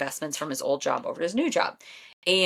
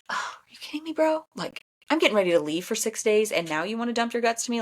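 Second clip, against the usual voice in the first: exasperated disbelief; 5 semitones higher than usual. Retold or imitated. Wife retells her exasperation.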